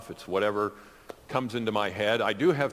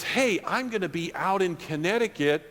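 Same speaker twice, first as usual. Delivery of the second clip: friend's voice; 8 semitones higher than usual. Retold or imitated. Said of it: "And he says".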